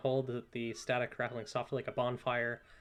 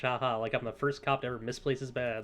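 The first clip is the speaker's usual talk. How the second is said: sarcastic laugh. Acted. Officer laughing off the lost badge, sarcastic. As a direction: brush it off with fake laughter. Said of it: "laughs, uh, sarcastically".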